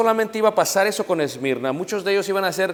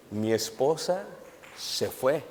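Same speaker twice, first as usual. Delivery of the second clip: mock tearful husband; 3 semitones lower, 9 dB quieter, much slower than usual.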